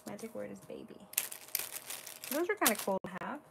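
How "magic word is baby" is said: softly repeated aside. Real, not acted. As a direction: say it again under your breath. Quiet repeat of the magic word.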